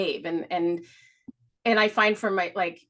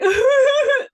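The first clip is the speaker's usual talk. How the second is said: mock wail; 10 dB louder than usual. Acting out a sobbing breakdown.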